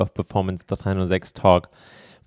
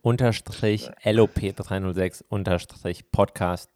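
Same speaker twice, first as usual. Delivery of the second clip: spelling it out slowly; slower than usual. Shown as a demonstration. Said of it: "Drive-In unterstrich".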